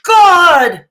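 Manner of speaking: high, loud, hammed-up horror; mock shock. Reactor mocking fuss over a super chat, mock shock. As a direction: overplay a scandalized gasp, drawn out.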